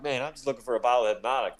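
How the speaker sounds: fast low mumbled excuse; casual quick excuse. Retold or imitated. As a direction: rush the cover story, lightly. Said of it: "And I'm like".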